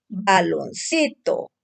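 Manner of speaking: Baloncito read slowly as one whole word. Shown as a demonstration. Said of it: "Porque así se lee, no por partes".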